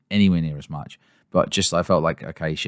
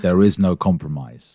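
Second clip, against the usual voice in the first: movie villain voice; 5 dB louder than usual. Retold or imitated. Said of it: "villain in a superhero movie".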